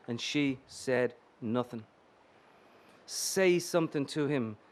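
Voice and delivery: calm, measured reading of a novel; story narration. A narrator's reading. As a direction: read it like literary fiction to an audience. Author reads his novel aloud.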